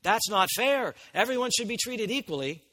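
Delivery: mock the outraged American objection; indignant protest. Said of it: "we scream with".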